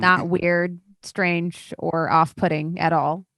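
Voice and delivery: understated, tired sarcasm; deadpan sarcasm. Real, not acted. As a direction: dryly insist on the opposite of what you mean. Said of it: "Storyteller says incredibly sarcastically".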